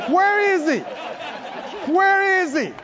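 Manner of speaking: eager search. Acted. David eagerly seeking Goliath.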